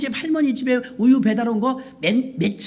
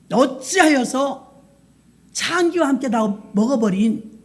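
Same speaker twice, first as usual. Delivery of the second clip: arguing son; 3 semitones higher than usual. Acted. Preacher voicing the elder son protesting to his father, indignant. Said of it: "따지는 거예요".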